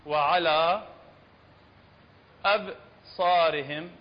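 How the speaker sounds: وعلى stretched four beats before أبصارهم; slow, drawn-out وعلى أبصارهم; long madd. Shown as a demonstration. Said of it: "هل تمد بمقدار".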